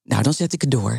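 veel lagere stem; toontje lager. Shown as a demonstration. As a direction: zak speels een flink stuk in toonhoogte. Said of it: "Ik heb het toontje lager". (quasi-sexy lage stem)

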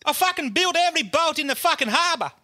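high-pitched hammed-up wail; mock-sob the complaint in a very high voice; comically wailing, aggrieved; crying. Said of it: "Giuseppe's fucking crying".

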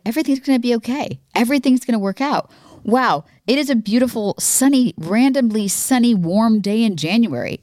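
high, lilting delighted wonder; imitating a cheery inner voice; upbeat self-talk. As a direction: voice your own sunny optimism, quick at first. Acts out own upbeat inner voice.

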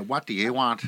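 singy-songy Belfast girl impression; light mock Belfast lilt; singsong Belfast accent. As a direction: imitate a lilting Belfast accent. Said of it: "That's very singy songy".

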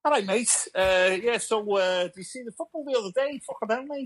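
high-pitched, excitable Scouse; Liverpudlian accent. Shown as a demonstration. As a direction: chat football like a Scouser, voice right up high.

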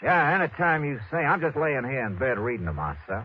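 lazy Texan lounging in bed; Texas drawl. Acted. Detective posing as Texan to jewel thief, Texas drawl. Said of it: "using my best Texas drawl".

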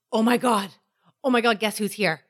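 imitating husband's sudden excitement; excited gasp. Husband spotting a celebrity at dinner, excited. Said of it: "did he say it in that tone?".

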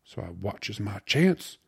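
put-on loud, animated slangy young man; gleeful slangy storyteller. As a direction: spin the tale proudly, building to the punchline. Voices Chunk telling his tale.

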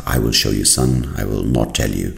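lightly voiced wise father teaching his son; quiet, measured fatherly reply; solemn father. Father's solemn lines in joke.

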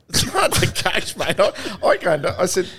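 high-pitched, helpless retelling; retold protest. Player brushing off a teammate's question, mock helpless protest. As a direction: plead ignorance, pitched well up.

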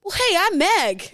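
Meg impression. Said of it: "Go, Meg".

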